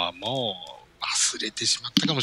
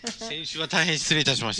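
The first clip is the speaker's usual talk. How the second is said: duck voice; 5 semitones higher, 3 dB quieter than usual. Pretend. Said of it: "ずっとこの声でやり取りしてる".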